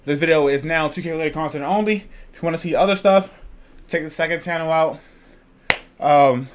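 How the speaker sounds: talking while winded; short of breath, catching air. Real, not acted. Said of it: "I'm out of breath".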